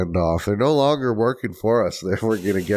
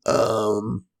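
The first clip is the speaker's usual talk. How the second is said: smoker's rasp; much slower than usual. Real, not acted. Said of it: "I sound like a chain smoker".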